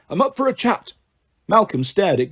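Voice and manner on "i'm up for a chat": put-on high-pitched elderly goat; put-on old-timer's voice; old man's voice. A narrator's reading. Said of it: "said the voice again".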